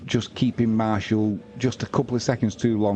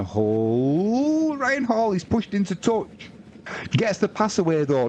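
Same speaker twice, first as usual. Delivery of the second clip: excited commentary call; 10 semitones higher, slower than usual. Real, not acted. Commentator calling a winger diving for the corner, excited shout. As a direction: voice jumps much higher on the name.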